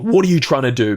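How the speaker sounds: wrong way, tense challenge; demanding. Shown as a demonstration. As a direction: confront it sharply, as if accusing.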